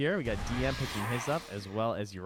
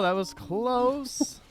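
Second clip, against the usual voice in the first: 1 amazed; 13 semitones higher, 5 dB louder, much slower than usual. Real, not acted. Co-caster after near kill.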